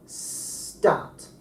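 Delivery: "Stat" with no puff of air after the S; unaspirated T demo. Shown as a demonstration. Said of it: "now we're going to say stat".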